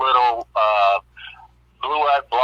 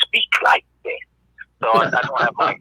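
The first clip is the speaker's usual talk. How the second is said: Santa voice. Shown as a demonstration. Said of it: "I wanna do my Santa voice".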